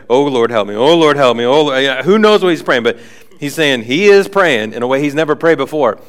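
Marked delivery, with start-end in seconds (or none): 0.1-1.8 a pleading cry to God, louder; desperate prayer. Retold or imitated. Blind Saul prays to the Lord, pleading. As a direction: beg for help like never before.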